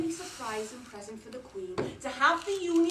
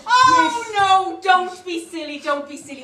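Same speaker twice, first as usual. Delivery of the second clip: flustered protest; 5 semitones higher, 14 dB louder than usual. Real, not acted. Teacher flustered by class suggestion.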